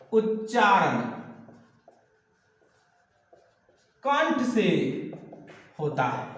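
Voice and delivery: उच्चारण कंठ से होता है spaced word by word with long pauses; slow dictation. Shown as a demonstration. Teacher dictating the definition slowly to students. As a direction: dictate slowly so they can write. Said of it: "teacher dictating definition".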